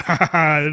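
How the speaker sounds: lightly acted villainous cackle; mock the plotters with a cackle. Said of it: "They're just sitting there cackling".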